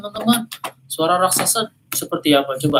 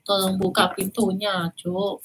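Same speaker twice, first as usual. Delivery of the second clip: higher, sweet fake granny voice; giant faking grandmother; 5 semitones higher, slower than usual. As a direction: coax sweetly through the door. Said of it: "Raksasanya bisa meniru suara ibunya".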